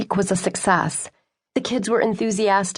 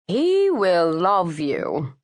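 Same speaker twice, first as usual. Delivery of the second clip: knowing, sly promise; much slower than usual. A narrator's reading. Sophie sizing Jessica up.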